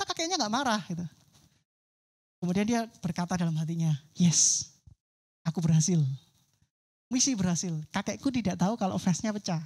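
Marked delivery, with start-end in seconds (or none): 4.2-9.6 proud little win. Acted. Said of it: "dia bangga dengan dirinya sendiri".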